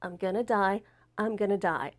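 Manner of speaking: softly repeated dread, understated; hushed, mildly fearful inner mantra; inner panic, retold. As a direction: murmur it as a private thought. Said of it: "I'm just thinking".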